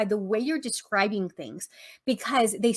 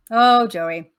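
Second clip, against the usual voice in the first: louder, fond cry of the name Joey; fond exclamation; 8 dB louder than usual. Retold or imitated. Teacher telling a class about Joey, fondly loud. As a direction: say Oh, Joey like everyone loves him.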